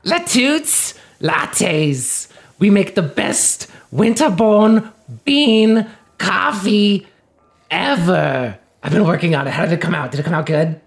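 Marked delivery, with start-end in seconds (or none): 0.0-8.6 slow, drawn-out pitch voice; slow showy product pitch to the shopkeeper; sales pitch. Pretend. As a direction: sell it like a proud ad. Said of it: "give our, uh, elevator pitch".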